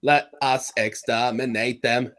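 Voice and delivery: slow, deliberate robot villain voice; Dalek. Retold or imitated. Podcaster joining in with a robot villain's line, slow mechanical impression. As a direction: space out the words like a machine. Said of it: "isn't that the Dalek?".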